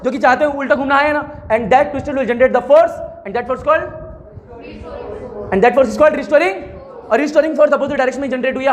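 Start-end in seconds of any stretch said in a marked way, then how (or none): 1.5-3.8 slow, spaced dictation. Shown as a demonstration. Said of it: "dictating notes slowly". 5.5-6.5 slow dictation. Shown as a demonstration. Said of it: "dictating notes slowly".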